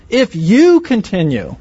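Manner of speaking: "if you continue" said slowly, each word weighted; stress on IF YOU CONTINUE. Shown as a demonstration. Preacher pointing the congregation to the condition, emphatic. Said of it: "Do you hear that emphasis on".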